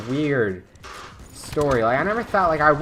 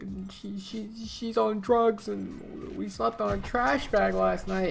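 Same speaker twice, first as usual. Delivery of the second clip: high, slow, teary mock sob voice; imitating crying woman; 9 semitones higher, slower than usual. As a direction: mimic a homeless woman near tears. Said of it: "I'm just gonna try to do my impression".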